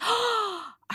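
a high, sharp imitated gasp of delight; mock excited gasp. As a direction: gasp like a star-struck fan. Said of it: "She goes".

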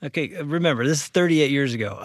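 ordinary talk

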